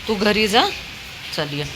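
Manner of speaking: high loud call, urging him home; calling the dog home. Real, not acted. Owner urging her dog to go home in the rain, high and loud.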